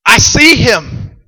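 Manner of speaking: loud, high, drawn-out cry of alarm; freaking out. Acted. Preacher acts the king seeing him in the fire, freaking out. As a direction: exclaim it slowly and loudly in disbelief. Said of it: "the king's freaking out".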